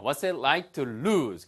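ordinary talk, nothing marked

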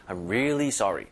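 "really" pressed and drawn out a little; stretched really. Shown as a demonstration. Teacher showing learners how to stress really. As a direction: push and stretch "really" slightly. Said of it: "힘을 주면서 살짝 끌어주는 거예요".

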